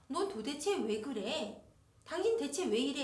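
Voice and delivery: exasperated blame. Retold or imitated. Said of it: "비난하는".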